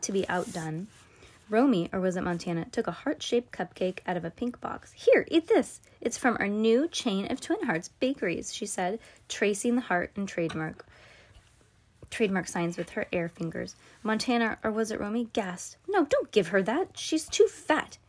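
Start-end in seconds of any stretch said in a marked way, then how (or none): 4.9-8.5 sister voice. Acted. Twin sister voiced in story. 15.9-18.0 shrill alarmed sister. Acted. Other twin protests.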